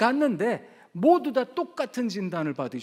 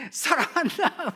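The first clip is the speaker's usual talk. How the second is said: slow fond father's reply; 8 semitones higher, 4 dB louder, slower than usual. Retold or imitated. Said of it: "막 그러세요".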